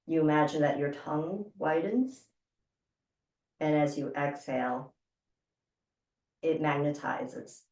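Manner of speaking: calm breath coach leading the exercise; guided breathing. Acted. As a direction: talk them gently through each breath.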